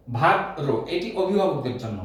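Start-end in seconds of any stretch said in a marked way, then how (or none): 0.1-0.7 ভাদ্র said as "bhaddro" with a doubled d; correct pronunciation. Shown as a demonstration. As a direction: hold the d in ভাদ্র and close with o. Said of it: "এরকম আসবে". (ভাদ্র — দ-এর দ্বিত্ব রেখে "ভাদ্দ্রো" উচ্চারণ)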